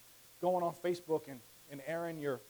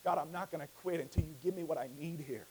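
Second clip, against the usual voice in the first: determined prayer; 4 semitones lower, 6 dB quieter, faster than usual. Acted. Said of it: "like Jacob, you said".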